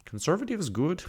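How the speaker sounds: put-on failed Midwest accent. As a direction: attempt the professor's Midwest accent, admit it barely lands. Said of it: "Can't do her accent".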